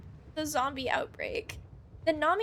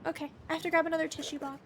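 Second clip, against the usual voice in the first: whispered complaint; 5 dB quieter, faster than usual. Real, not acted. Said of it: "I ran out of tissues".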